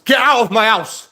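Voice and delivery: furious high loud yell; shouting. Real, not acted. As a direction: bellow the order. Tenant ordering landlord out.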